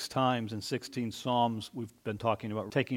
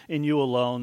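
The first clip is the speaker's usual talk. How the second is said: 1 offhand; 6 dB louder than usual. Shown as a demonstration. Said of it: "We just kinda see it".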